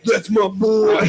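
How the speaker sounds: put-on voice of a doting mom; hammed-up imitation of a screaming mom; teammate's mom impression. Host teasing player about his mom, mock mom voice. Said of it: "Does your mom sound like this?".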